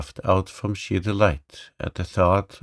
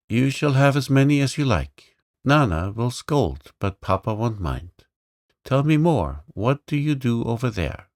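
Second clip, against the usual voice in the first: put-on higher, eager little girl's voice; spirited girl, louder and higher; bold little girl; 4 semitones higher, 4 dB louder than usual. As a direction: play the lively young princess, pitched up. Girl's lines in the story.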